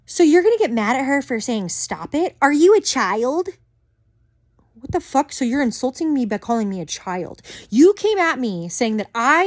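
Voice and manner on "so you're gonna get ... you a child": mock condescension. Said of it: "She said".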